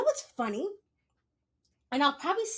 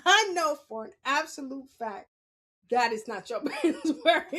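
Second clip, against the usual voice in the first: knowing scold; 4 semitones higher, 7 dB louder than usual. Retold or imitated. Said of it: "you're like".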